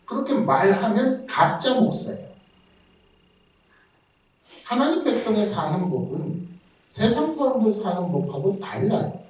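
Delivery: ordinary delivery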